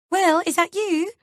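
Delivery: high, loud teary call; fake fearful weeping. A narrator's reading. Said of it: "sounding as if she's weeping with fear".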